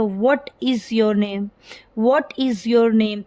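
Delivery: slow "What is your name?" with tone going up and down; rise-fall intonation. Shown as a demonstration. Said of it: "पहले sound हमारी rise हो रही है".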